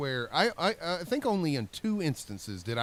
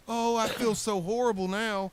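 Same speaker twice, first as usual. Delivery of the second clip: tags 1; 9 semitones higher than usual. Retold or imitated. Mock guilt after finding money.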